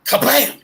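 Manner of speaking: high, loud "kablam" bang; imitated crash. Man telling friends about a windshield crash, imitated bang. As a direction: sound out the smash with a punch.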